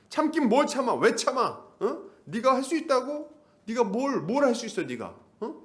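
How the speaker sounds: high-pitched, goading accuser; taunting devil. Acted. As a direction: badger them like the devil claiming ownership. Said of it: "마귀가 우리 안에서 막 얘기하는 거야". (다그치고 몰아붙이는 마귀 목소리)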